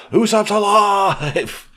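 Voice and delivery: high, slow, mock-amazed exclamation; mock shock. Recapping the chapter to friends, hammed-up shock. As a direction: stretch it out in fake astonishment.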